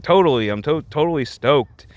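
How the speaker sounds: lightly imitated skater enthusiasm; a hint of skater boy; a pop singer's skater lingo. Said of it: "almost skater boy lingo".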